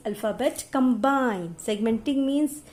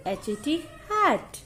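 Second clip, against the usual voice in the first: एच ए टी said apart, hat jumps up high; segmented; 4 semitones higher than usual. Shown as a demonstration. Teacher contrasts segmenting for pupils, letters apart. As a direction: pause between each letter.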